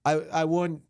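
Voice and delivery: high, mock-casual warning; hammed-up falsetto chaser; creepy man voice. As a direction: boast while chasing. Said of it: "It's like".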